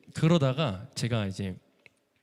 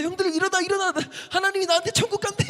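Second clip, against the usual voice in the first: overjoyed shout. Retold or imitated. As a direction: wake the whole house with the news. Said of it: "너무 기쁜 거예요".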